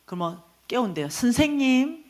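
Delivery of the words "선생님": lilting, drawn-out call to a sleeper; polite wake-up call. Retold or imitated. Volunteer waking a drunk homeless man, coaxing call. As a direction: call out sweetly to rouse someone.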